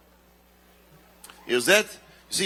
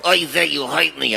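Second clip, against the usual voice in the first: puppet Schmendrick. Acted. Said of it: "please, for Schmendrick".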